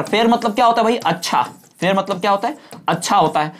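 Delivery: normal talking voice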